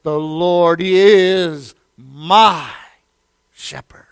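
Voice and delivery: slow build that drops to a whisper on shepherd; fading to a whisper. Acted. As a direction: let the last word fall to a breath.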